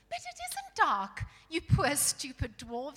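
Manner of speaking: put-on high, loud, urgent girl's voice; pleading girl. Lucy insisting to dwarves it is light, urgent pleading.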